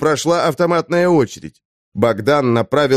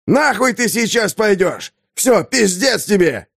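higher, rough yelled threat; soldier shouting back; 7 semitones higher than usual. A narrator's reading. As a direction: bark it back at him. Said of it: "прокричали ему в ответ".

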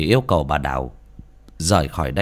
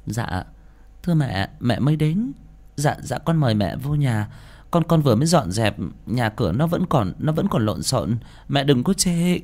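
fake cheer; 5 semitones higher than usual. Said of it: "giả vờ vui vẻ dò xét".

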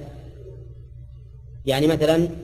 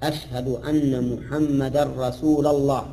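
slow, chanted أشهد أن محمدا رسول الله; imitating a muezzin; slower than usual. Teacher imitates how many callers to prayer chant it. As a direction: drag it out like a muezzin. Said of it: "كثير من المؤذنين يقول".

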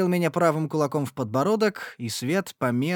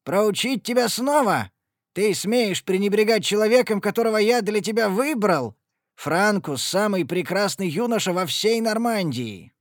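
higher, louder furious rant; raging father; 7 semitones higher, 4 dB louder than usual. Acted. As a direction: keep yelling at the defiant daughter. (отец продолжает гневно кричать)

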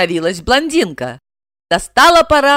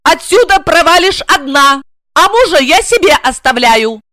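loom over her and bark it; 8 semitones higher, 5 dB louder than usual. Acted. Жена рявкает на блондинку, громко и высоко. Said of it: "рявкнула".

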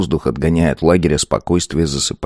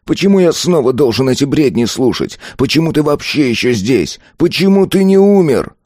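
building rage; 7 semitones higher than usual. A narrator's reading. Azar rages at the ghost, building to a shout. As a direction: pile the questions up to a shout.

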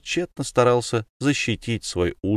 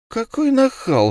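put-on indignant old woman; 3 dB louder than usual.

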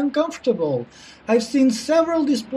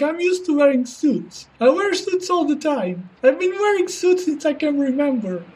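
nervous banker voice; 3 semitones higher than usual. Acted. Banker character held.

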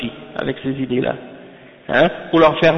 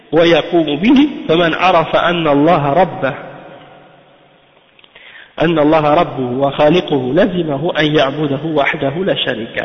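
fast text reading; faster than usual. Acted. Reads the Arabic treatise text.

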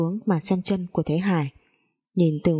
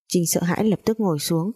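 ordinary delivery, nothing marked

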